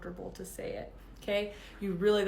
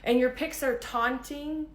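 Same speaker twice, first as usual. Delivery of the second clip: "your pics are taunting?" thrown back higher in disbelief; incredulous repeat; 4 semitones higher, 3 dB louder than usual. Real, not acted. To the guy who blamed her photos, incredulous. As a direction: echo his words back, disbelieving. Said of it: "you literally showed your true colors".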